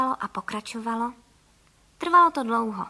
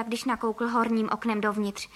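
ordinary delivery, nothing marked

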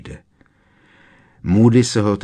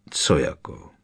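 curt, lower-pitched challenge; sharp question; 5 semitones lower than usual. A narrator's reading. Professor questioning Harry, mildly sharp. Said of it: "zeptal se Moody ostře".

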